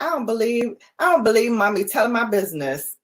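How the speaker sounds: lightly voiced indignant dog; dog's voice, laughing. The dog complaining about her owner, half-laughing. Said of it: "She like".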